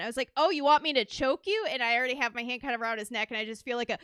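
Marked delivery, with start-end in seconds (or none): 0.4-1.6 raised, slightly higher retold question; louder, as if muffled by a mask; talking really loud. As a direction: call it out to be heard through a helmet. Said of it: "I have to talk really loud".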